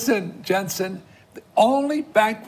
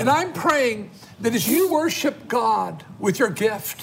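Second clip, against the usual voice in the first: earnest, insistent intercession in measured phrases; fervent prayer; slower than usual. Real, not acted. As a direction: declare a prayer over the viewers. Prayer for families continues.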